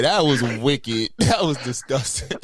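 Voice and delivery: slow disgust. Real, not acted.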